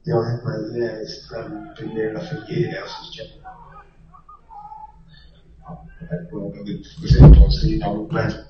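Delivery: bad phone line cutting out; radio breaking up. Real, not acted. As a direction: voice dropping in and out on a weak signal. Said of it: "it sounds like you're breaking up a bit".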